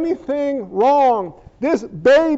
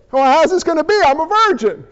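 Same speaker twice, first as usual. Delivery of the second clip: put-on puzzled girl; 5 semitones higher, much faster than usual. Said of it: "So Mary's like".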